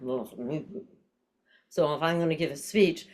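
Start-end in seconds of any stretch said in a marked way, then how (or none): 0.1-0.3 collapsed grunt. Shown as a demonstration. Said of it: "I just feel like".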